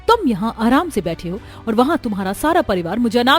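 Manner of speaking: unload it all on him; wife berating her husband for sitting idle; furious at husband. Acted. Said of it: "गुस्सा सातवें आसमान पर".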